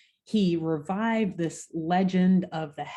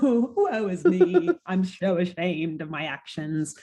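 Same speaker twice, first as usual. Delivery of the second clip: hammed-up woe. Retelling the villain's shame with a laughing mock wail. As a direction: overact the woe, laughing through it. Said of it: "sad and ashamed".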